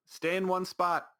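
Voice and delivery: put-on telling the kids to stay put, stern and slow; stern order. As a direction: lay down the law, word by word. Scolding kids on boat.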